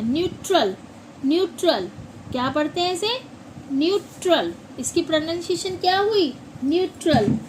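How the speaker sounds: न्यूट्रल said "nyoo-tral"; teacher drills न्यूट्रल; न्यूट्रल with a clear "nyoo" sound; model pronunciation of neutral. Shown as a demonstration. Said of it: "इसे हम न्यूट्रल पढ़ते हैं".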